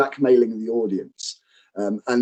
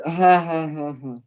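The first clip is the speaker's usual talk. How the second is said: fake laugh; 3 semitones higher than usual. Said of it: "You just literally do a fake laugh".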